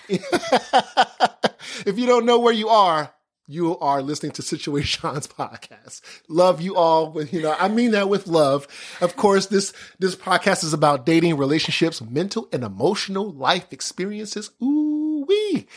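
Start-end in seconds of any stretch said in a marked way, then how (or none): 0.0-6.0 slow teasing, half laughing; laughing tease. Real, not acted. Teasing listeners. 14.6-15.7 high drawn-out ooh-wee; excited exclamation. Real, not acted.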